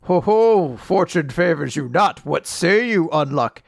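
mock gloating laugh. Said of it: "starts laughing, being like".

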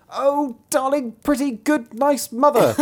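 very high, slow wheedling; drawn-out high pleading bairn; begging child. A narrator's reading. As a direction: lay on the flattery in a child's voice. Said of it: "the one more prettily than the other".

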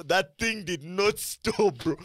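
laughing through the words, slow; cracking up while recounting the movie to friends, laughing. Real, not acted.

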